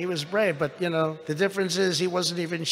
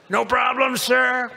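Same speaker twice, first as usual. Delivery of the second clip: mock calm captain; 7 semitones higher, 3 dB louder, slower than usual.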